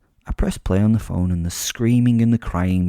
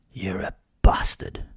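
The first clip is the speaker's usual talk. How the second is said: hissed whisper of contempt. A narrator's reading. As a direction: whisper it with cold hatred. Whispered insult to captive.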